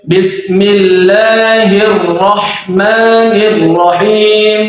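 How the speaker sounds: Bismillahirrahmanirrahim lambat dengan panjang mad pas; mad dua harakat. Shown as a demonstration. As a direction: contohkan panjang mad yang benar. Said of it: "Itu panjangnya". (bacaan contoh yang tartil)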